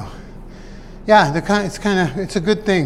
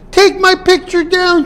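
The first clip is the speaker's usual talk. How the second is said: much higher mock mother's voice, slow; imitating mom; 13 semitones higher, 3 dB louder than usual. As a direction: play his mother, high and bossy. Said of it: "She goes".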